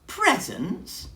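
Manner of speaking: high, loud startled echo; incredulous echo; surprised bear. Acted. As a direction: repeat it in disbelief. Bear echoes Mouse, puzzled.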